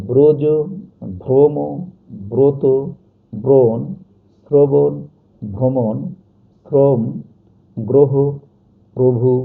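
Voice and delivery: ব্রজ through প্রভু, each first vowel a loud round o. Shown as a demonstration. Teacher repeats examples for students, first vowel pronounced o. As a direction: list ব্রজ to প্রভু one at a time, punching the o. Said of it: "ও এর মতো উচ্চারিত হবে".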